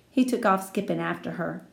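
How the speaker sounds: ordinary delivery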